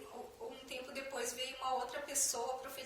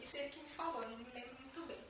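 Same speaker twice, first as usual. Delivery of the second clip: ordinary talk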